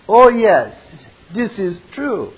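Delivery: a touch of the smug Frenchman; Merovian voice. Acted. Merovian answers Morpheus about the keymaker, lightly smug.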